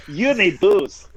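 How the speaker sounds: Doctor Nick. Retold or imitated. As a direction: sell it like a shady doctor. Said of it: "It's just Doctor Nick from The Simpsons".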